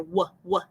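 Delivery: "w" as a short "wuh", twice; isolated "w" with the H silent; W sound alone. Shown as a demonstration. Teacher explaining whale, "w" said alone as "wuh". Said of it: "You just hear that W sound".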